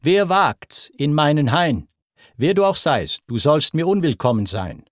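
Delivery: threatening call. Acted. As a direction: menace the intruder, hurry the ending. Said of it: "Drohend rief an Apoll".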